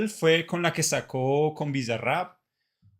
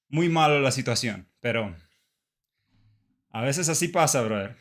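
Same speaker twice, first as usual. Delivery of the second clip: breathless after exercise; out of breath; 3 semitones lower than usual. Real, not acted. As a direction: talk while catching breath. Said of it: "I'm out of breath".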